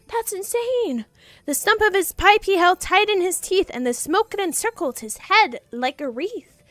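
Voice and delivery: rhythmic read-aloud of a Christmas poem; story narration. Acted. Streamer reading the poem to chat, storyteller voice. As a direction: read the verse with a gentle storyteller lilt.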